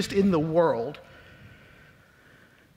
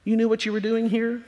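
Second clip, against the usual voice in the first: doubting God; 3 semitones higher than usual. Retold or imitated. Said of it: "It means".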